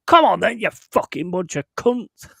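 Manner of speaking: retold furious shout, pitched high; road-rage yell. Driver yelling out the window at other motorists, angry retold shout. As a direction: re-enact yelling abuse out of a car. Head out of car window, raging.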